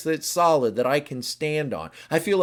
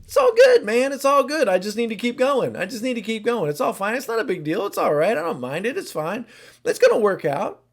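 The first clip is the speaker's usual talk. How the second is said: much higher, louder, carefree reassurance; breezy upbeat; 6 semitones higher, 4 dB louder than usual. Acted. Type seven insisting all is fine, high and chipper. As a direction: brush everything off with cheerful gusto. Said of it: "what's the seven saying?".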